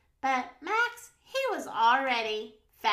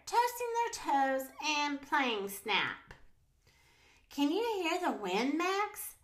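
put-on children's story narration; 3 dB louder than usual. A narrator's reading. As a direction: read a picture book to little kids, animatedly. Reads picture book to children.

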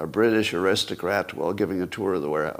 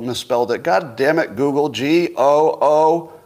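mock exasperation; 3 semitones higher, 4 dB louder than usual. Acts out frustrating phone search.

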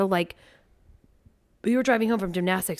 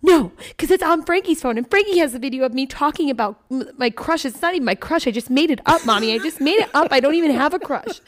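put-on higher, louder child voice; voicing daughter; 7 semitones higher, 5 dB louder than usual. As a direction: play the embarrassed girl protesting.

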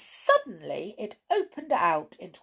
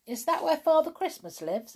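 high-pitched rabbit voice; rabbit character; 11 semitones higher, 4 dB louder than usual. A narrator's reading. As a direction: ask as a curious little rabbit. Startled rabbit asks eagerly in story.

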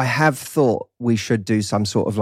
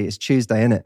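Cockney, Tuesday as "chews-day"; British Cockney accent. Shown as a demonstration. British guest demonstrating the meme, in Cockney. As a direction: East London Cockney, falling on "innit". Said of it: "with chew, C H E W".

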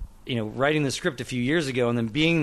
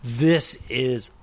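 slow, drawn-out wonder, sinking into a whisper; hushed, reenacted kid's amazement; awestruck; much slower than usual. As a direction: marvel at it, stretching every word. Awestruck thirteen-year-old at studio tour.

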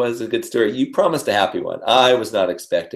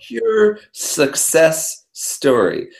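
high, drawn-out words full of laughter; laughing, slow and high; 13 semitones higher, slower than usual. Real, not acted. Host teasing the guest about the next podcast, laughing hard. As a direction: laugh it out, nearly tearful.

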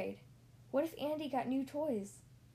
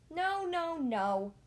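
louder, pleading denial; cried out; 6 semitones higher, 4 dB louder, much slower than usual. Acted. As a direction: cry out in protest. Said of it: "Woody cried".

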